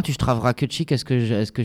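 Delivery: Lorrain patois rattled off fast; Lorrain dialect. Shown as a demonstration. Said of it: "Je viens de parler lorrain".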